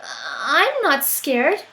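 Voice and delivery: slow, defiant little voice; child bravely insisting, slow. Acted. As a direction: insist you're not scared. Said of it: "said the Gruffalo's child".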